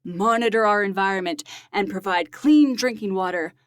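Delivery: dramatic trailer voice, draw it out; an announcer voice. Pretend. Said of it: "give it your best movie trailer voice".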